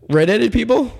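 high, puzzled guess; puzzled question. Retold or imitated. Interviewer guessing what he means, high and puzzled. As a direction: ask it like you can't believe it.

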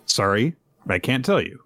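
mildly calm retold reply. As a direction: give the quoted apology calmly, without fuss. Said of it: "just says very calmly".

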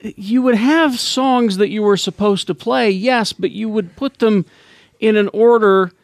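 put-on high, slow old-timer voice; old man voice. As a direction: reminisce like a doddering old DJ. Old man bit continues.

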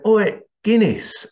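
high, drawn-out teasing call; mock holler at a workmate.

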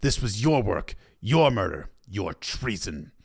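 measured anger, each charge set apart; understated anger, slowing on the last charge; angry accusation. A narrator's reading. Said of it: "said Robb angrily".

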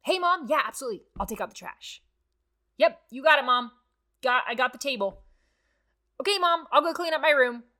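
eager, bright-voiced kid answering mom; cheerful child. A child answering mom about chores, eager cheerful voice. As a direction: chirp it back like a happy helper.

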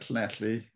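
"Llanelli" with the Welsh double L sound; Welsh pronunciation. Shown as a demonstration. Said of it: "double L is a letter".

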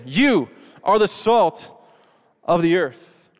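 slow, firm, believing it; deliberate earnest conviction for the neighbor. Shown as a demonstration. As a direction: say it like you believe it, slowly. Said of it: "like you believe it with some conviction".

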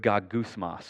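"gagusmas" pronounced clearly, stress on the middle syllable; teaching a Greek word. Shown as a demonstration. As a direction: say "gagusmas" as gah-GOOS-mahs. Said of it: "gonna teach you a Greek word".

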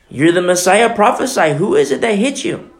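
a touch of mocking demand. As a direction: jeer at the captive with a mock challenge. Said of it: "Mocking the King of Kings".

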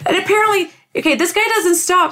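laughing, pitched high; giggling as she reads on. Real, not acted. Laughing again.

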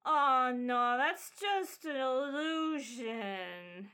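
slow, drawn-out debunking whine; lightly voiced disappointed child; let-down kid. Kid spots the fire is illusion, mock let-down child. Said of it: "one of the kids is like".

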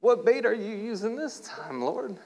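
an archangel leaning in, dying to know; Gabriel excited. Acted. Gabriel asking God what he caught, high and excited. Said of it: "Gabriel's on the other side going".

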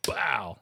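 sudden drawn thud sound; imitated crash noise. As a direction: mimic a body smacking a door. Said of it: "you just hear".

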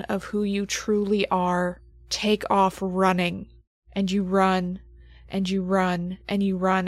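driving, insistent narration of a frantic run; game master scene setting. Acted. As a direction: keep pushing the run onward, relentless. GM narrates the panicked flight.

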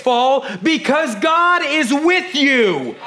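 preaching. Shown as a demonstration. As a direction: lift it high and slow. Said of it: "repeated line".

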